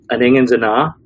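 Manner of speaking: put-on Dundonian accent; imitating a thick Dundee accent. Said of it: "very strong Dundonian accent".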